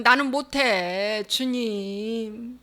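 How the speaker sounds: drawn-out, fading lament; acted, spent cry to God; despairing cry. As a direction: let the plea sink away slowly. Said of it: "사도 바울이 절규했잖아".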